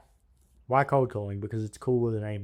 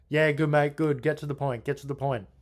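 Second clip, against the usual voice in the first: a touch higher, impatient mate voice; impatient tradesman; 4 semitones higher than usual. Retold or imitated. Busy owner brushes off the cold caller, impatient and higher. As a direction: hurry the caller along, a bit higher. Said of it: "I'm gonna do an impersonation".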